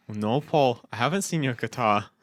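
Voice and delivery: lightly voiced British band-member reply; mock Liverpool accent, answering simply; a singer. A singer answering a bandmate about the guitar, mock British accent. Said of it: "I just started doing the band".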